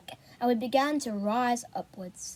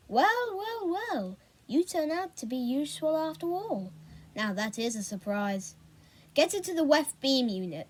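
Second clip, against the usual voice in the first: a lightly voiced gloating villain; mock him with mild relish; sneering villain. Villain Roger Sullivan taunting the captured boys, lightly sneering.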